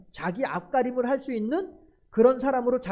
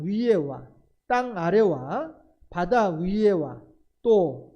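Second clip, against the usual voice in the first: solemn scripture reading; slower than usual. Acted. Reads scripture aloud slowly.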